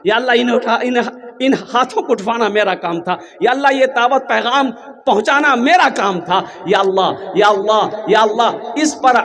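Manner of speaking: pleading dua with repeated calls on God; supplication prayer. Real, not acted. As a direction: implore God on the congregation's behalf. Leads a supplication. (दुआ में गिड़गिड़ाते हुए)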